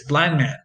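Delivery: blind man run together, no d sound; d dropped. Shown as a demonstration. Showing students, blind man with no d. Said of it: "You don't say it".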